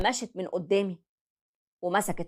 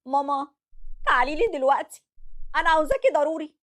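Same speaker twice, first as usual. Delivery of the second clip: breaking down; 8 semitones higher than usual. Acted. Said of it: "وهي منهارة في العياط".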